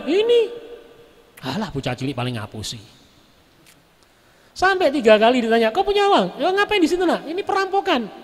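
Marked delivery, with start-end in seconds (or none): 0.0-0.4 put-on high, small child's "Ini."; a lightly done innocent child. Child answers robber. 5.7-8.1 higher, pushy robber demanding; a lightly voiced robber questioning a child.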